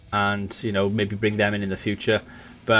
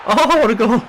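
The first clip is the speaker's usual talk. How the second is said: loud, high delighted goal cry; excited shout; 13 semitones higher, 9 dB louder than usual. Real, not acted. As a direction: roar with real joy. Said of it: "That got me really excited".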